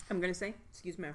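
talking with mouth full; words around a bite; chewing while talking. Real, not acted. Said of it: "excuse me while I chew".

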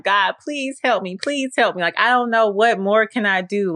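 high, pleading cry to God, imitated; retold desperate pleading. Retelling herself on the floor begging God, pleading. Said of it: "down on the floor crying and weeping".

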